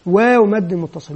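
slow, repeated recitation of واو مد متصل; teacher drilling a phrase. Shown as a demonstration. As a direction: chant it slowly for the class. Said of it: "ويبدأ قدم العبارة".

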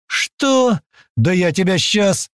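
very high, furious outburst; enraged outburst. A narrator's reading. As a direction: explode with rage. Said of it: "зашипел тот".

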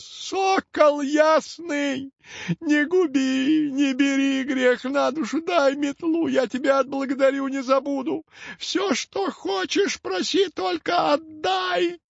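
high, slow, drawn-out witch's wail; howling hag. A narrator's reading. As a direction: stretch every word into a desperate crone's howl. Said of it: "завыла она теперь уже во весь голос". (протяжный вой старой ведьмы)

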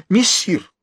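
high desperate call; crying out. A narrator's reading. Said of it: "вскричал Фулуа". (отчаянный высокий вскрик)

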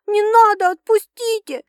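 high, loud panicked cry; desperate plea. Acted. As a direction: cry out to be let go. She struggles against attacker.

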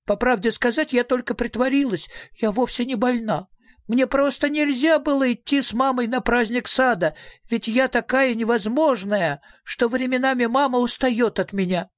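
put-on high child's voice confessing; little girl explaining herself; little girl's voice. A narrator's reading. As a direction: own up in a small high voice. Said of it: "воскликнула дочь Мимлы".

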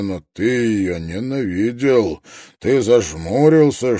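ordinary delivery, nothing marked

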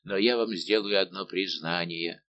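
ordinary delivery

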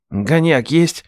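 a hint of a cheeky nephew; nephew asking. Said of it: "уточнил Ренат".

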